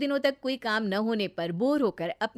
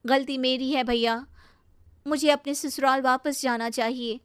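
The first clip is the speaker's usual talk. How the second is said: higher-pitched, mildly plaintive confession; remorseful sister; 5 semitones higher, 3 dB louder than usual. Acted. Sister admits her fault to brother, remorseful. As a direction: own up with gentle regret.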